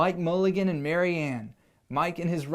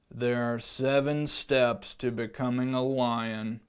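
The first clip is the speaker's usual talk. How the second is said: lion teacher voice; 5 semitones lower than usual. Acted. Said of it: "we'll do voices on this one".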